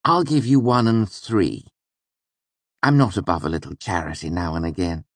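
lordly and generous, a little high; grandly condescending offer; magnanimous. A narrator's reading. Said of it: "he said magnanimously".

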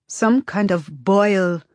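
slow, doubting murmur; disbelieving. Acted. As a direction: say it like you can't believe it. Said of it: "She sounds disbelieving".

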